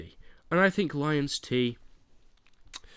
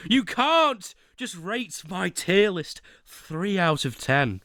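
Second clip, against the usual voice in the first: mock anger. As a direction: play the offended Brit, drawing out the outrage. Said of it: "I got a bit angry".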